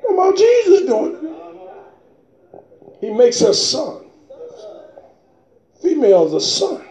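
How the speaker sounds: preacher stirs the congregation, calling out fervently; preaching. Real, not acted.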